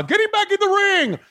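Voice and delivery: high mock referee shout. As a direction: bark it like a frantic referee. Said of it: "says Nick Patrick".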